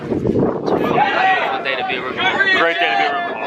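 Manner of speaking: excited. Real, not acted. Hype freshman declaration.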